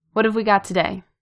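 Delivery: ordinary delivery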